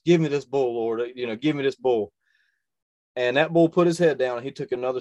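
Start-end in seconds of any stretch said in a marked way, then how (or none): 0.0-2.1 loud, high desperate plea to God; retold loud prayer at full draw; pleading prayer. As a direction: beg the Lord out loud, voice straining.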